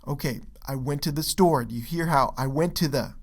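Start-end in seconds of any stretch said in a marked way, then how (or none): 0.7-1.6 quick "I went to the", emphasized "store"; rhythm on STORE. Shown as a demonstration. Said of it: "is faster". 2.4-3.1 quick, run-together "I went to the"; faster small words. Shown as a demonstration. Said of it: "is faster".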